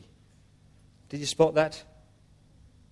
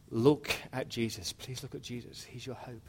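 pleading; 7 dB quieter than usual. Acted. Preacher pleading with people to look at Jesus, soft pleading. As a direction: plead gently, letting the voice drop away. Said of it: "just to plead with people".

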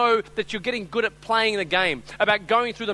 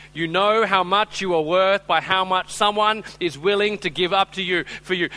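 slower and louder, each word weighed; slow emphatic restatement; 6 dB louder than usual. Shown as a demonstration. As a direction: hammer home the point for the congregation. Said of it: "Listen very carefully".

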